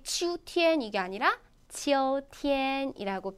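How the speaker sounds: 秋天 first said ugly, then 秋天 said cleanly, slowly; ugly versus proper. Shown as a demonstration. 안 이쁜 발음과 바른 발음을 비교하는 선생님. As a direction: contrast a clumsy 秋天 with a clean one. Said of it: "안 이쁘게".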